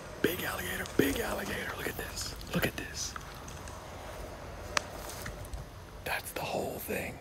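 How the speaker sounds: barely voiced, hushed, very quiet whisper. Watching a big alligator without wanting to get too close, whispering. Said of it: "I don't know why I'm whispering".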